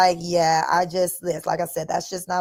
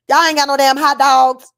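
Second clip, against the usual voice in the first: exasperated outburst; 6 semitones higher, 9 dB louder than usual. Real, not acted. Complaining about Paris food.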